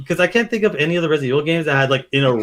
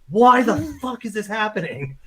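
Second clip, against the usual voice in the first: distressed Ethan; 7 semitones higher than usual. Retold or imitated. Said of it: "He's just like".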